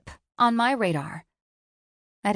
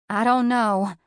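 growled; 3 semitones higher, 7 dB louder than usual. A narrator's reading. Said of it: "she growled".

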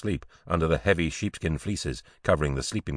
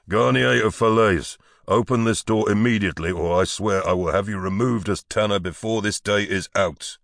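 commanding shout; 4 semitones higher than usual. Acted. Duke's man threatening the tanner outside, commanding shout. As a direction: shout an order through the door.

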